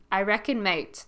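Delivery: broad Aussie I reckon, mate; Aussie slang said with a grin; very Australian. Shown as a demonstration. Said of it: "That's very Australian right there".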